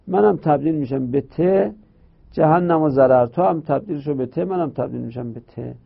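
mildly voiced letters striking a deal; voicing the two letters. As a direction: lightly play two friends giving in. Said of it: "گفتن". (توافق دو حرف با لحنی سبک)

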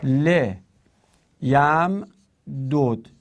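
ل یم دود said slowly, each part separate; syllable by syllable. Shown as a demonstration. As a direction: sound out لِ یَمْ دُود slowly. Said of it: "اصلش این بود دیگه". (هجا به هجا)

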